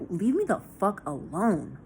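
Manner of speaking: slow, irritated brush-off; a touch of exasperated anger; mock cussing out. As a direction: stretch it out, silently fed up with the caller. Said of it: "I'm cussing them out in my head".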